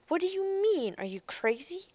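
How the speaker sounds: taken aback, pitch leaping up; incredulous. A narrator's reading. Girl challenging the robot boy's boast, incredulous.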